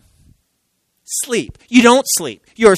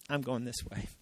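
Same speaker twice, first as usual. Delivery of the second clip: mock stubborn reply; 6 semitones lower, 19 dB quieter than usual. Stubborn believer voiced.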